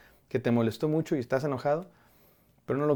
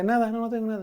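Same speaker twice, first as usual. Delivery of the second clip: mock sulky denial; 8 semitones higher, faster than usual. Mocking the sulky denial again.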